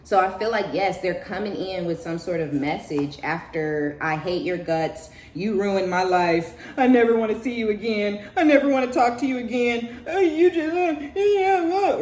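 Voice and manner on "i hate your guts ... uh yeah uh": starts level, climbs much higher and louder till it sputters; building angry outburst. Retold or imitated. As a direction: let the hate escalate until words fail. Voicing the hater's old attack.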